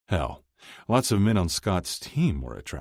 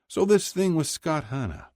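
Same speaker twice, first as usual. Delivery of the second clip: higher dad voice, leaning on this; prying father; 13 semitones higher than usual. A narrator's reading. Dad probing Kip about Scott, higher prying voice. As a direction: fish for gossip with a knowing lift.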